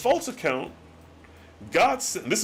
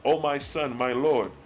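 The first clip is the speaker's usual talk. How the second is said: solemn scripture reading; 3 semitones lower than usual. Acted. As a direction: read the old words like a solemn sermon. Reads God's archaic speech slowly.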